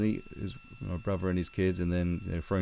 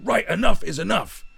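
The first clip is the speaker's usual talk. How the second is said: fed-up declaration; 12 semitones higher, 8 dB louder than usual. Retold or imitated. Uncle losing patience with kids.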